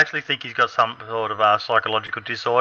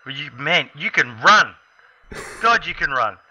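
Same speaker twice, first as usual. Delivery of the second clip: amazed; 4 semitones higher, slower than usual. Retold or imitated. Retold amazement at teammate running.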